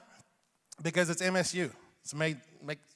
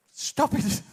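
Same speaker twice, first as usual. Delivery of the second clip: mock protest; 8 semitones higher, 4 dB louder than usual. Real, not acted. Joking at audience.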